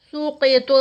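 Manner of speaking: سقط stopped with the final ط bouncing; qalqala on ta. Shown as a demonstration. Teacher demonstrating qalqala on سقط. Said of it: "تا پہ قلقلہ آئے گا".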